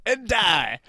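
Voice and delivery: high, loud pop-star yelps; punchy mock falsetto shouts; a famous pop singer. Killing henchmen in disguise, mock pop-star shouts. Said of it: "is that the pop star?".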